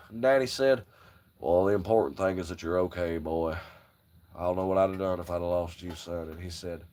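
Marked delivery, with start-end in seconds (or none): 1.4-6.3 a hint of a fatherly voice. Father lightly voiced, reassuring his son after the wreck. Daddy voiced in retold story.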